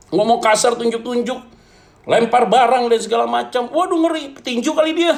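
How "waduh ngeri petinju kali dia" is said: high-pitched joking dread; hammed-up comic alarm before laughing; mock alarm. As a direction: play up the fright for laughs, pitch way up. Jokey alarm at a violent girlfriend.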